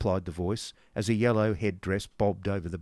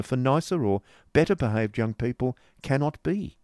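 mincing lady; 4 semitones higher, 4 dB louder than usual. Acted. Miss La Creevy voiced.

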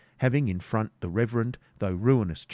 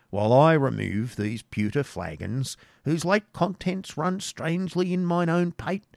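put-on tipsy old hermit; 4 semitones higher than usual. Tipsy hermit, feels unsteady.

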